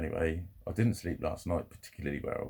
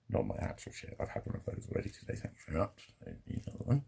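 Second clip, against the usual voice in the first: whispered aside; 3 semitones lower, 8 dB quieter, faster than usual. Real, not acted. Aside joke about toilet.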